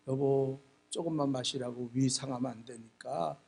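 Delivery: low, soft concern, mildly acted; lightly voiced caring wife. Wife serving hangover soup to husband, soft caring tone. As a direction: coax him gently and quietly.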